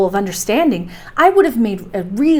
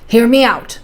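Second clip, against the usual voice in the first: pushing the voice louder; forced voice; 4 dB louder than usual. Acted. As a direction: force the words out. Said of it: "forcing his voice".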